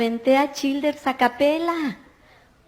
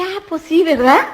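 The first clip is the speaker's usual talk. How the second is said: laughing agreement; 5 semitones higher, 5 dB louder than usual. Retold or imitated. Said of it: "yo dije".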